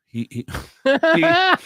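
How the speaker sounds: helpless laughter through the words, pitch jumping high; breaking up laughing. Real, not acted. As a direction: try to talk while cracking up. Cracks up at his own story.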